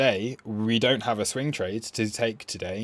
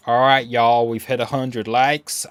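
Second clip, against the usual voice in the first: hammed-up American accent with a y'all twang; 6 dB louder, slower than usual. Shown as a demonstration. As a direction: put on a mock American accent. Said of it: "I'm gonna do American accent for y'all".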